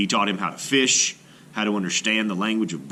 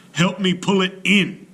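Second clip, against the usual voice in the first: loud, much higher shout; 9 semitones higher, 5 dB louder than usual. A narrator's reading. Maui shouts to his brothers for help, loud shout. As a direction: call for help straining. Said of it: "shouted Maui".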